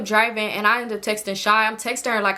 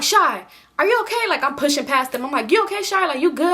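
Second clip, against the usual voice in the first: worried calling; 4 semitones higher than usual. Retold or imitated. Rushing in to check friend.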